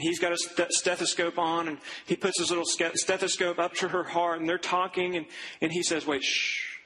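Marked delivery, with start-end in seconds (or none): 6.1-6.8 whispered shh while listening; hushing whisper. Retold or imitated. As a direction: hush her to hear the heartbeat. Doctor hushes her while listening.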